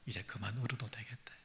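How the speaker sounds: hushed whisper of comfort; soft whisper. Acted. God tells the grieving it is enough, whispered. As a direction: let the words fall to a breath. God's comfort, softly quoted.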